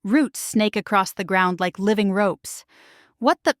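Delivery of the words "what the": startled, choked gasp. A narrator's reading. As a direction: blurt it, choking on fear. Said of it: "I choke".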